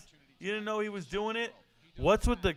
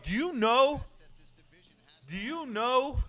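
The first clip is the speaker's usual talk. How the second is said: high-pitched, retold shock; 7 semitones higher than usual. Streamer retelling his thoughts on hearing a mother swear, shocked. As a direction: recall being shocked, pitch jumping up. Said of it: "I was shocked".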